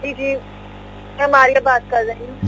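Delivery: faint caller on the line; quiet, distant phone voice; barely audible. Real, not acted. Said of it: "आवाज तो कम है".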